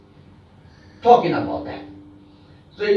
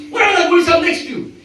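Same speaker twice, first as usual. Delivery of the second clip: mock repeat; 5 semitones higher, faster than usual. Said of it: "He's saying".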